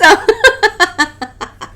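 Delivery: a burst of high, loud laughter; high loud cackle. Real, not acted. Reader cracking up at her own dirty joke, loud high cackle.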